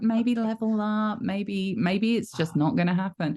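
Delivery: haughty teasing of a level-two suitor; lightly voiced sorceress, condescending; mock Malady voice.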